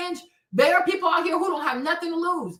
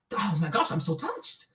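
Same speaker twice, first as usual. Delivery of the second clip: much lower, soft, hammed-up emotion; mock touched; 11 semitones lower, 7 dB quieter than usual. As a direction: fake being moved. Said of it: "I act like I'm".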